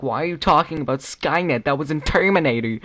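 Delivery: acted-out exasperated demand; mock incredulous questioning. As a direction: challenge it in exaggerated disbelief. Acts out questioners challenging him.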